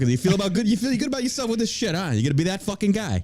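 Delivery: mock-offended New Yorker. Real, not acted. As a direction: give it confrontational New York attitude. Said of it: "I certainly turned New York".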